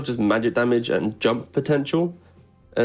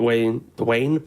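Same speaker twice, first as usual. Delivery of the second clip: slow, lightly voiced Uwe accent, lane as Wayne; the speaker's Uwe voice; slower than usual. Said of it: "don't do the Uwe voice".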